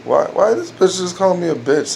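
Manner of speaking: mock-confused inner thought; mock puzzled. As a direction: sound genuinely confused. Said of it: "you think to yourself".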